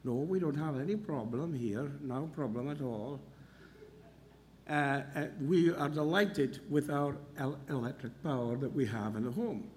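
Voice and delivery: a hint of a quiet Welsh lilt; Welsh accent. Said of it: "in our Welsh accent".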